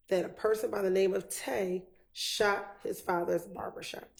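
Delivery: halting chunks, a clear pause after each phrase; broken-down question. Real, not acted. Lawyer re-asks the confused witness, breaking the question into pieces. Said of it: "try to break it down and ask it again".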